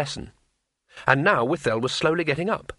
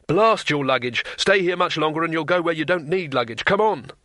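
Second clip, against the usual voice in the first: higher, urgent exasperated cry; screamed; 4 semitones higher than usual. Acted. Wizard urging the tourist to flee, screaming. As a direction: build to a high-pitched urgent yell. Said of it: "screamed Rincewind".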